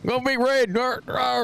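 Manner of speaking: high hick cheer with a growl; hammed-up hick cheering. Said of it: "hick voice".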